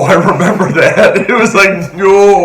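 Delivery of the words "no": mock yelp. Reacting to spicy sauce.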